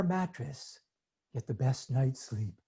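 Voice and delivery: slow, drowsy ad voice; sleepy voice. Retold or imitated. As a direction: lull them like a mattress ad. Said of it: "Always with a sleepy voice".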